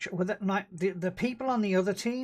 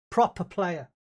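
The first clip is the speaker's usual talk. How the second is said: loud mocking praise, proper stressed; loud sarcastic jab; 7 dB louder, slower than usual. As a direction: call him a proper player, loud and scornful. Mocking teammate's new mouse.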